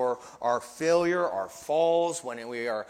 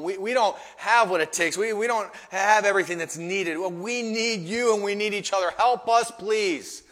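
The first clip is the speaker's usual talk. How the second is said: needy plea; 5 semitones higher, 4 dB louder than usual. Acted. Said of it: "Peter should have said".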